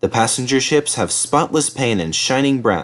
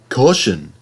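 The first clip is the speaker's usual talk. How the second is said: Henry thinking. Acted. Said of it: "thought Henry".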